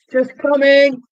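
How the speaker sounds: high, loud call to another room. Pretend. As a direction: sing out that you're on your way. Calls out to someone offstage.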